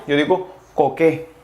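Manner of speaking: coqué, the t silent; French masculine coqué; French coquet. Shown as a demonstration. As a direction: say coqué with a closed final é. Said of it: "Para decir coqueto".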